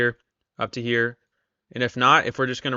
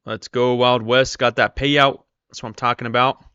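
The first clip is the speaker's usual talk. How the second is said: excited cheering; 6 dB louder than usual. Real, not acted. Cheering viewer's payout live.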